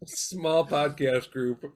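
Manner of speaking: slow, laughing through words. Real, not acted. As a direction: chuckle while saying it.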